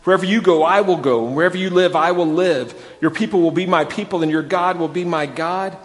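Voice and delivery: earnest scripture reading, building on Wherever; solemn Bible reading voice. Acted. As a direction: read Ruth's vow from the pulpit with rising fervour. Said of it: "but Ruth replied".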